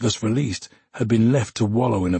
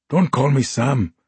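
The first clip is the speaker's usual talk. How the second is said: growled; 4 semitones higher, 3 dB louder than usual. Acted. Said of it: "he growled".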